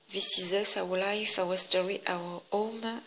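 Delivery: English words read with a strong French accent, lightly played; self-mocking English accent. Shown as a demonstration. Scrapbooker reads English page words to viewers, French-accented English. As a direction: show off your French-accented English as a joke. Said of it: "admirez mon accent anglais".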